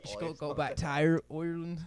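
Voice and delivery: put-on Irish brogue; Irish accent. Shown as a demonstration. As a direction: keep up the mock Irish accent. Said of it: "Irish accent is the hardest one to do".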